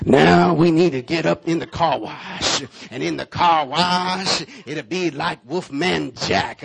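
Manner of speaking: slow, loud late-night radio announcer. Retold or imitated. Preacher retelling his car sermon in a DJ voice. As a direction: draw it out like a smooth DJ. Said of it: "with the radio voice".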